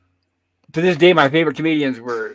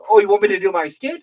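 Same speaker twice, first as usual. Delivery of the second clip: Rodney Dangerfield; 7 semitones higher, 5 dB louder than usual. Retold or imitated. Rodney voiced in retold story.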